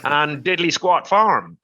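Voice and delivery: drawn-out, lightly imitated Canadian accent; slow it down in an attempted Canadian accent; best Canadian accent. Farmer quoting a man met at an event, mock Canadian accent. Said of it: "that's my best Canadian accent".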